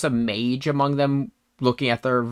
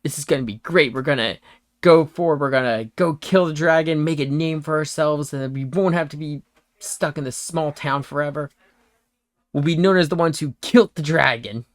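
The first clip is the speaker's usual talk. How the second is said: mildly excited, eager would-be hero; eager chatter, lightly acted; excited young adventurer; 2 semitones higher, faster than usual. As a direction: talk up the big plan with a touch of excitement. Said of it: "excitedly talking to each other".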